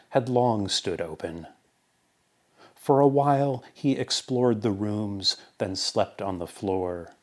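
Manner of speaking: deliberate parable recital, pausing between phrases; poetry reading. Acted. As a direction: tell it like a measured fable. Reads parable poem aloud.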